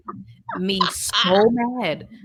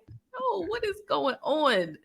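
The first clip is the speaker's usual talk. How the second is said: high "no", then slower and quieter; retold disbelief; 6 semitones higher, 6 dB quieter, slower than usual. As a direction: stretch out a baffled reaction, pitched up. Retells own reaction to film.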